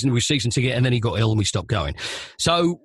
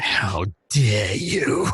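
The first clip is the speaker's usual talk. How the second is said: slow, furious shout in a put-on foreign voice; mock outraged shout; 6 semitones lower, much slower than usual. Footballer furious at the presenter's intro, shouting. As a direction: roar the outrage, dragging each word. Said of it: "face like thunder".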